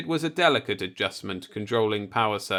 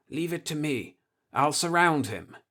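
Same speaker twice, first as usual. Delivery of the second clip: bravado; 5 semitones higher than usual. Acted. Nagurski's drunk bravado.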